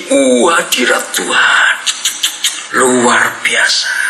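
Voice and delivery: slow, sighing parody of a blissful churchgoer; mock worshipper. Pastor mimicking churchgoers back at Sunday service, slow mock bliss. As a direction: drag it out like someone lost in worship.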